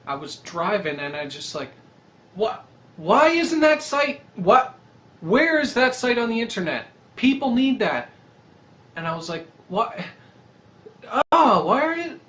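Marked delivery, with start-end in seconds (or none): 2.3-8.1 loud, high rush of sudden ideas; excited outburst. Retold or imitated. To himself while driving, loud excited exclaiming. 9.7-12.2 loud, high startled exclaim; excited outburst. Retold or imitated. Alone in the car, loud high startled exclaim. Retold idea while driving.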